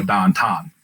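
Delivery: Pittsburgh "downtown" with "ow" flattened to a long "ah"; Pittsburgh accent. Shown as a demonstration. Pittsburgh native showing how home says downtown, Pittsburgh accent. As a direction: say it like "dahn-tahn", Pittsburgh style. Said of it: "elongate everything".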